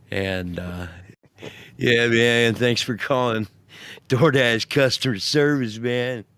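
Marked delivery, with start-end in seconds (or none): 1.8-6.2 lightly voiced laid-back skater clerk; a hint of stoner-casual customer service; skateboarder dude. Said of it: "came to work on a skateboard".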